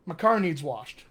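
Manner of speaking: "My" weakened to "muh" before "car"; connected "muh car needs washed"; Pittsburgh reduction. Shown as a demonstration. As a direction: run "needs washed" together. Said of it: "We get rid of the to be entirely".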